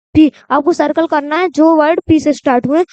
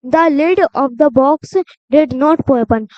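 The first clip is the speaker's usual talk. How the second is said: put-on reading a rhyme to children, word by word; slow, careful read-aloud; slow poem reading; much slower than usual. Shown as a demonstration. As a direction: read each word slowly and clearly. Reads the poem slowly.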